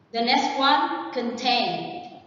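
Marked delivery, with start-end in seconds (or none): 1.1-2.2 "contain" stressed on -TAIN; conTAIN, as a model word; stress on second syllable. Shown as a demonstration. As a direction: lean on the last syllable of "contain". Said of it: "the stress is on the second one".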